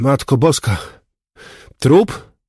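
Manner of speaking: loud, high-pitched groaning moan. Ordered back by the policeman, a man reacts to the find: moaning. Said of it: "jęknął Bąk".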